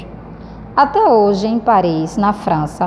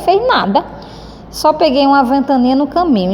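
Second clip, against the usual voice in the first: a lightly voiced shrug, higher; indifferent; 4 semitones higher than usual. Shown as a demonstration. Teacher showing how Cebolinha answers, not bothered. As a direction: say it like he couldn't care less. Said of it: "pela cara dele".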